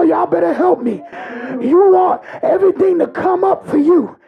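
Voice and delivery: shouted, rising sermon climax that keeps pushing; full-force preaching. Acted. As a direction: preach it hard, calling out to the congregation.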